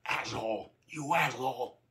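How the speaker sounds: angry yell, stretched on the key words; angry scream. A narrator's reading. Narrator screaming at a teammate over a scratch, angrily. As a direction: bellow it in exasperation. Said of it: "started to scream angrily".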